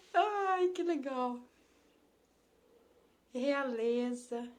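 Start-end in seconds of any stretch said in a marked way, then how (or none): 0.1-1.4 excited exclamation. Real, not acted. Delighted by classmate in chat.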